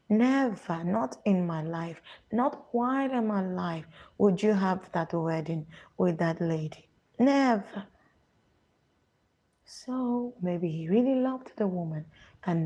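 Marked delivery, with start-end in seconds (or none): 0.1-7.9 Nigerian mother. Retold or imitated. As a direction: refuse flatly, like a mother forbidding the wedding. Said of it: "That is how they speak".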